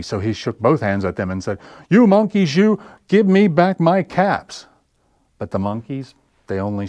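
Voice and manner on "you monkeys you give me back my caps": angry demand. Acted. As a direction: make every word a threat. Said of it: "Now he felt quite angry".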